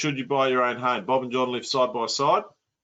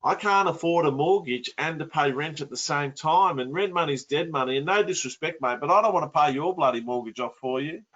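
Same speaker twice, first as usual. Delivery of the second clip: imitated grievance, pitched higher; mildly upset; 4 semitones higher than usual. Bob objects to paying John's mortgage, mildly upset. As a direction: protest like a put-out mate, lightly acted. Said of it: "he's very upset".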